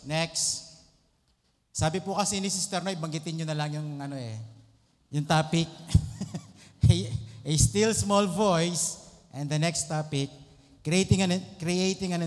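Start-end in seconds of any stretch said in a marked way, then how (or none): 5.8-6.4 short, breathy laugh; brief real chuckle mid-talk; quick little laugh. Real, not acted. Laughs while searching for the topic.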